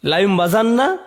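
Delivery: লায়ুম বাজান্না said short, rising on বাজান্না; a quick বাজান্না with an upturn; first reading. Shown as a demonstration. Teacher listing the first of three readings, short. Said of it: "এর তিনটি কেরাত আছে".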